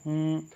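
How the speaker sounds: demo hum sound. Shown as a demonstration. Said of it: "जैसे हम बोलते हैं".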